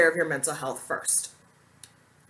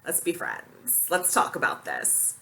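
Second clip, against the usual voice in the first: mock sweet DM; 4 semitones lower, 5 dB quieter, slower than usual. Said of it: "was like".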